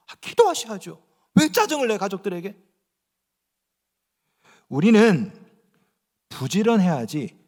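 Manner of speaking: ordinary talk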